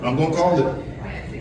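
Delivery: soft, low repeat of "I'm gonna call it" as a private aside. Shown as a demonstration. Preacher echoing a playground threat to youth, softly. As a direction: drop the voice and say it again under the breath. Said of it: "don't let me know your mama name".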